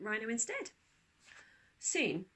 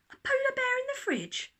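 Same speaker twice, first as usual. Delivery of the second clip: mocking whisper; 7 dB louder than usual. A narrator's reading. Parents mocking, laughing.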